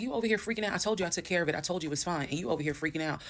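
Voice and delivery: retold accusation. Husband accusing wife of overreacting, mock reproachful. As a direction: start high and scold, easing down.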